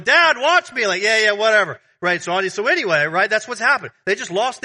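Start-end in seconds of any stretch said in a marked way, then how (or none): 0.0-0.9 put-on very high, loud child's call; excited kid shouting from the field; little kid. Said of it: "little Johnny's going". 1.0-1.8 loud, raised brush-off; mock-impatient dismissal; dismissive parent. Acted uninterested parent brushing off child.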